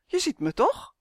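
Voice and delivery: high, squeaky elf protest; crying out indignantly. A narrator's reading. Uf challenges Justin, high indignant elf voice. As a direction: ask it high, affronted. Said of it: "riep Uf".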